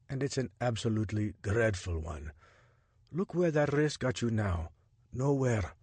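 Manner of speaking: lightly voiced Jabari, measured and cautious; a hint of an informant taking a risk.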